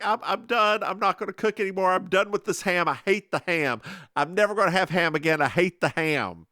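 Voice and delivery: put-on German accent. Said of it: "Oma, was like".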